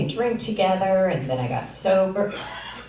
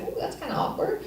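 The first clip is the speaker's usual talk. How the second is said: high breathy whispered aside; high whispered awkward aside; 14 semitones higher, 6 dB quieter than usual. Retold or imitated. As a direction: whisper it to yourself, cringing. Inner thought at awkward moment.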